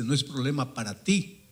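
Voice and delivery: fiery anger. Retold or imitated. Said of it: "casi botando fuego por los ojos". (reto airado que va subiendo)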